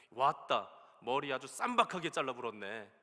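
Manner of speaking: put-on Jeolla regional dialect accent. Retelling what a bathhouse barber said to a customer, Jeolla dialect accent. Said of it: "전라도 사투리인가요?".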